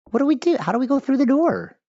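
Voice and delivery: very high-pitched mock-desperate wail; hammed-up helpless panic. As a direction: squeak it out as if hopelessly stuck. Stuck player acts out panic.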